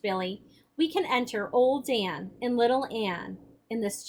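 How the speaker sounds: expressive read-aloud voice, the characters lightly acted; story narration. A narrator's reading. Teacher reading the novel to the class, expressive narration. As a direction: read the chapter aloud with feeling.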